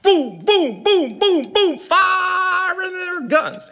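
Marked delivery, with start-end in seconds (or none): 0.0-1.8 high, loud booming gun noises; mock gunshots. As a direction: shout out the gunfire. Imitating gunfire.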